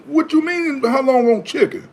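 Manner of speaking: high, exasperated snap back; fry cook snapping back at customers, exasperated; exasperated retort. Retold or imitated. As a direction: fire the question back in disbelief. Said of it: "I go crazy".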